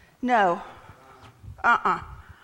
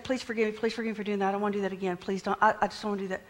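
rote apology; 5 dB quieter, much faster than usual. Acted. Mimics routine asking for forgiveness.

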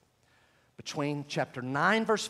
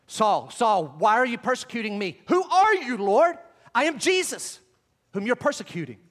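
louder, dramatic acting of Jesus and Saul; acted dialogue; 4 semitones higher, 5 dB louder than usual. Preacher dramatizing the road to Damascus, loud and intense. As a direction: act out the voice from heaven and Saul's reply. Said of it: "I believe it's something like this".

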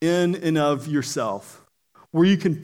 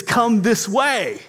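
higher, slow calling voice; 4 semitones higher, slower than usual. Acted. Rescuer calls to someone trapped in fire, slow guiding call. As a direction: call out slowly to guide someone. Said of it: "then you hear a voice".

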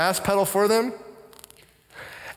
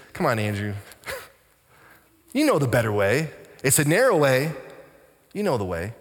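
lower, patient chiding voice; gentle correction; 3 semitones lower than usual. Retold or imitated. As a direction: nudge a friend back on course. Voices Holy Spirit gently correcting him.

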